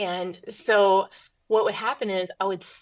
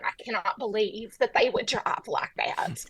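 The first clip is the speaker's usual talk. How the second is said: slow, deliberate Southern drawl; seething Southern woman in traffic; Southern accent. Retold or imitated. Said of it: "The accent doesn't work unless you shake your head".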